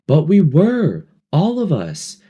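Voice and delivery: high, loud outburst; protest. A narrator's reading. Ralph protesting to Piggy, high and loud. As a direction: cry it out high.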